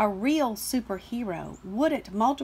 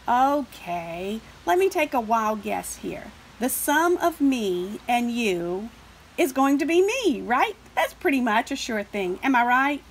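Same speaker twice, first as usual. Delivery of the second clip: smug number; 4 dB louder than usual. Acted. Smug number character doing sums.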